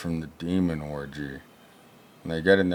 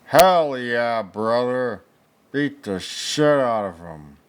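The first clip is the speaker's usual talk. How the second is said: high, loud hell yeah; excited cheer; 5 semitones higher, 4 dB louder than usual. Real, not acted. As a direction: cheer the punch on. Cheering on the fight.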